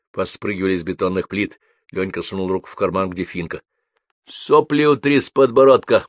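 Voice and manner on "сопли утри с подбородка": put-on louder gruff order from the old man; commanding. A narrator's reading. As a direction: order the boy around with contempt. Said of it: "приказал старик". (приказным тоном, громко)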